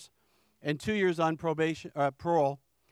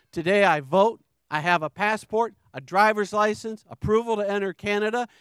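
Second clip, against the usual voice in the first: louder, ringing testimony of restored rights; triumphant proclamation; 2 semitones higher, 5 dB louder than usual. Real, not acted. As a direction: proclaim each right like a victory. Triumphant list of regained rights.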